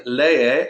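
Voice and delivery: "lee" with both e vowels sounded, le-e; both vowels pronounced. Shown as a demonstration. Teacher showing students both vowels, "lee" in two syllables. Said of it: "I pronounce both vowels".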